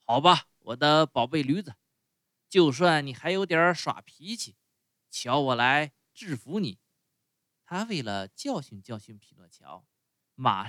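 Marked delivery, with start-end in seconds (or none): 0.0-6.8 louder, menacing master threatening his donkey; growing angry, scold the stubborn donkey loudly. Acted. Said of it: "主人生气地叫起来". (主人大声威胁不听话的驴子，满腔怒气)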